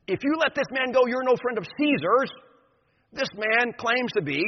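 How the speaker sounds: high, loud warning; threatening. Acted. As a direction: bear down on him with menace. Leaders threaten Pilate.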